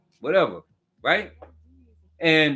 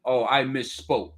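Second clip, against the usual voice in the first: low, fading mock whine, getting softer; a lower, sheepish take-back trailing off; mock Trump backpedaling; 9 semitones lower, 4 dB quieter than usual. Mocking the clown taking it back, low and fading. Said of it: "the clown said".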